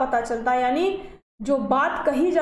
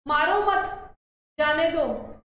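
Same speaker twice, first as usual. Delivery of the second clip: मारो मत as one raised phrase, pause, then जाने दो; pause after मत; slower than usual. Shown as a demonstration. Teacher gives students another sentence, pausing after मत. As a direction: keep मत with मारो, then break. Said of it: "एक वाक्य और लेते हैं".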